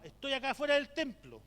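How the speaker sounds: loud, high-pitched imitated caller; calling out. An older churchgoer rings the pastor from outside, calling out. Woman phoning from outside the temple.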